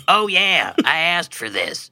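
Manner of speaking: high, rueful mascot voice; resigned reminder. Retold or imitated. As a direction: sigh it out as a self-reminder. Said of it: "reminding himself".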